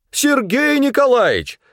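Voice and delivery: high, loud mimicking shout; angry customer mocking the clerk's call. A narrator's reading. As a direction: echo her call to mock her. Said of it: "подхватил и Князев её зов".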